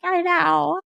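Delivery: high, drawn-out mock wail; imitated crying. Wife admitting to husband she can't handle the news, mock tearful wail. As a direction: wail it like your tearful self, hammed-up. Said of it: "start crying and he's like".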